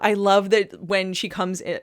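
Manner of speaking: usual speaking voice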